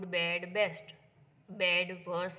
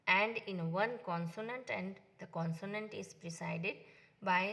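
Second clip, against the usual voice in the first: slow rule reading; much slower than usual. Shown as a demonstration. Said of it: "teacher reads the rule aloud".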